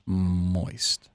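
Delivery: soft, intimate ASMR words. Shown as a demonstration. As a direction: breathe each word close and slow. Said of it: "Can I do it for you?".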